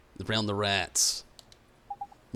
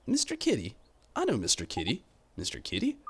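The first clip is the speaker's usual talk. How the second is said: high, bright Mister Kitty; light up at the name Mister Kitty; delighted high-pitched Mister Kitty; excited recognition; 3 semitones higher than usual. Acted.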